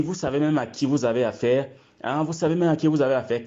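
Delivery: rising, fast indignant retort. Retold or imitated. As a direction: throw it back in outrage. Indignant deputy quoted in confrontation.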